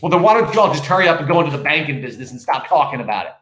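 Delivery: fast, impatient burst; flash of impatience. Acted. Wife telling husband to stop talking, quick impatience. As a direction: rush it out impatiently. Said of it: "sudden flash of impatience".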